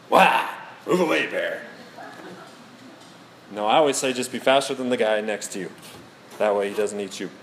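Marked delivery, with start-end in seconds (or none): 0.1-1.6 mock scare shout. Showing church how to scare a bear, mock shout. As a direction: shoo off a bear with a short yell.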